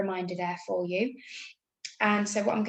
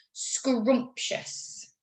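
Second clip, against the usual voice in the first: spelling test word; 3 semitones higher than usual. Shown as a demonstration. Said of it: "you can't hear the sound in that one".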